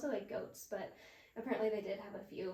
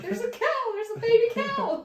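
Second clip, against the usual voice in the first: high, loud, breathless panic; frantic; 13 semitones higher, 14 dB louder than usual. Retold or imitated. Telling her partner about the calf, high frantic yelling. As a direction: blurt it out in a frenzy. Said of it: "And I was like".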